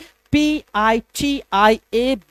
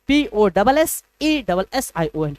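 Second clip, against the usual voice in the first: slow spelling out; slower than usual. Shown as a demonstration. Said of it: "पोजीशन".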